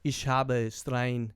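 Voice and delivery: slow, halting attempt at German; learner's imitation of a German accent. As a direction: try out German to find the accent. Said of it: "trying to get in the German accent".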